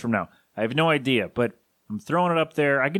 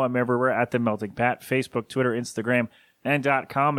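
auctioneer. Real, not acted. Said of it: "that one was like an auctioneer".

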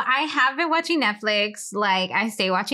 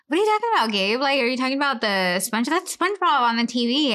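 playing it off; 3 semitones higher than usual. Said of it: "I wanna play the Mensa".

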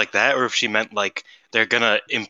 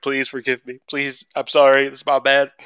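higher pleading apology on her knees; playful over-the-top plea; mock begging; 4 semitones higher, 3 dB louder than usual. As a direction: beg forgiveness in a hammed-up way. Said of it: "like, gets on her knees".

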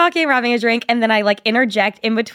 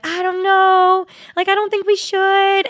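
drawn-out, higher, hesitant whine; mock reluctance, stretched and pitched up; reluctant friend; 8 semitones higher, slower than usual. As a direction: imitate a friend who needs convincing. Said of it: "Bree was so like".

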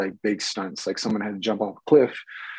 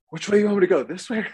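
high, confused question to the director; playing the lost actor, voice pitched up; mock confused; 10 semitones higher, 6 dB louder, faster than usual. Actor to director, asking which way in a high mock-confused voice.

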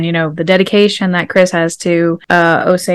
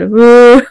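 raised, loud "ooh"; irrepressible affirming "ooh"; 4 semitones higher, 5 dB louder than usual. Retold or imitated. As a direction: let an approving "ooh" burst out. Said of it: "I can't keep that in".

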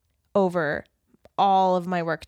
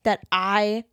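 playful dad promise. Retold or imitated. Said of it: "he was just like".

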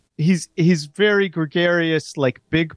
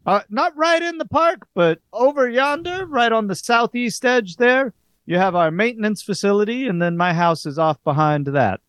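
Ray Loman in character; 8 semitones higher than usual. Acted. Ray Loman describes his home.

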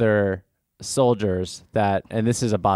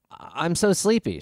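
sleepy soldier; 8 semitones higher than usual. Acted. Wounded soldier voiced in story.

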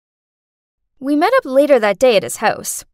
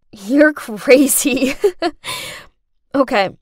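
amused; slower than usual. Acted. Amused reply to friend, laughing.

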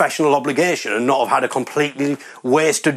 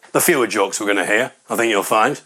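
lower-pitched correction of "fewer"; pedantic correction; 4 semitones lower than usual. Acted. Audience member correcting another's grammar, pedantic and lower. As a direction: put them right on "fewer", dropping the pitch. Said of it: "the guy who, uh, got corrected".

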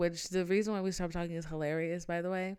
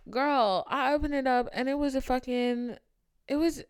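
excited gossip; 5 semitones higher, 6 dB louder than usual. Real, not acted. Excitedly retelling the shock.

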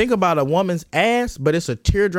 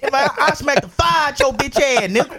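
white dude acting black; 7 semitones higher than usual. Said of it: "some white dude acting black".

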